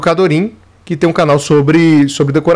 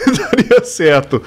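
laughing; much slower than usual. Real, not acted. Laughs mid-sentence about morning live.

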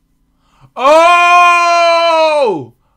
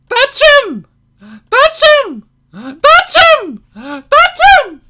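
urgent shout; 10 semitones higher, slower than usual. Real, not acted. Gamer urges the character to touch him, shouting.

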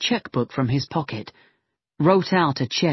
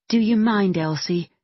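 lightly voiced determined girl, higher; a firm young woman, raised pitch; young woman's voice; 5 semitones higher than usual. Megan asking Symington for a private word, lightly voiced.

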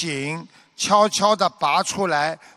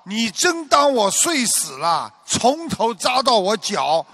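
higher-pitched mock roar of outrage; hammed-up indignant yell, a little raised; angry outburst; 4 semitones higher than usual. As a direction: scold like a patient jolted up in fury, lightly acted. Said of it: "咆哮着骂道".

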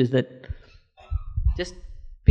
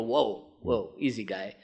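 mock caution; 4 semitones lower, 9 dB quieter, slower than usual. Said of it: "some mind would go".

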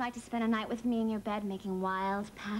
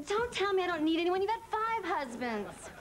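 indignant, higher-pitched protest down the phone; exasperated; 5 semitones higher than usual. Acted. Upset daughter to her mother on a late call, exasperated. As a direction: snap back at Mom in rising exasperation.

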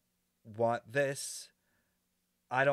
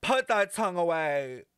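loud, raised-pitch scolding; scandalized order; 5 semitones higher, 5 dB louder than usual. Real, not acted. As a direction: tell her off, falling at the end. Repeats order to game character.

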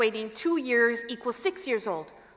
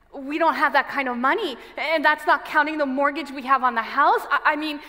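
rising distress; 4 semitones higher, 4 dB louder than usual. Acted. Parent totting up unaffordable therapy costs, increasingly distressed. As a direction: pitch climbing as worry mounts.

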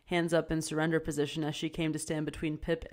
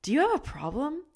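angry challenge; 11 semitones higher, 4 dB louder than usual. A narrator's reading. Pip confronts cashier.

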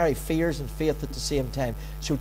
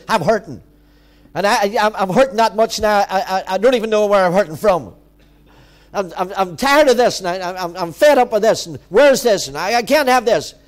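loud, worked-up complaining to God; fed-up, stumbling rant, raised voice; mock complaint; 6 dB louder than usual. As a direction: let a pent-up grievance pour out. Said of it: "I have an old complaint".

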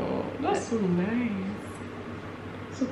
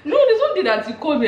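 higher, laughing recount; excited; 9 semitones higher, 4 dB louder than usual. Real, not acted. Roommate telling a caring moment, excited and laughing. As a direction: bubble over with the story.

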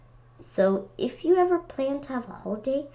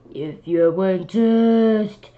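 gorilla voice; 4 dB louder, slower than usual. Acted. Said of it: "said the gorilla".

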